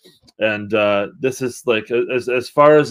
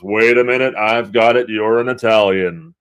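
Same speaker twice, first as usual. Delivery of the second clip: lightly imitated sample, louder at first; a musician; 5 dB louder than usual. Podcaster quoting a song to co-host, light imitation. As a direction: quote the record with a punchy lilt. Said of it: "the song when he goes".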